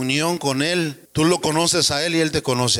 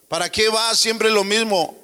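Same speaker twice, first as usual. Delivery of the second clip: a touch higher, mock tempter voice; tempting satanic voice; 6 semitones higher than usual. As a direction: lightly play the devil whispering doubts. (voz tentadora del diablo, apenas actuada)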